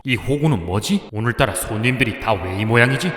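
low-pitched, weary shopkeeper's grumble; acted private griping in a low voice; grumbling aside. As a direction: grumble to yourself about the customers. Shopkeeper's aside about odd customers.

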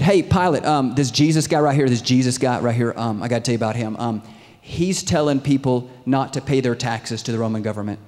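loud, pushy complaint to an official; energetic hammed-up tattling; acted accusers. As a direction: flag him down and accuse loudly. Accusers call out to Pilate.

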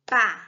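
"Pa-ne-la" in three separate beats; separated syllables. Shown as a demonstration. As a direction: break "Pa-ne-la" apart, a long pause after each syllable. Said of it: "Leia e separe em sílabas". ("Pa-ne-la" sílaba por sílaba, bem pausado)

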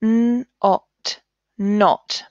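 "D, ot" split apart, then "dot" blended; segment, then blend the word; sounding out. Shown as a demonstration. Teacher showing pupils how to blend a word. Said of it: "Let's read these sounds".

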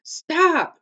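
high, loud drawn-out shout. A narrator's reading. Annie shouts over the roaring fire, desperate shouting. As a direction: shout to be heard over a roar. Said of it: "she shouted again".

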